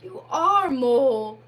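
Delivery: loud, glad cry of recognition; sudden conviction. Acted. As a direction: Rat realises it is truly Mole. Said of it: "cried the water rat with sudden conviction".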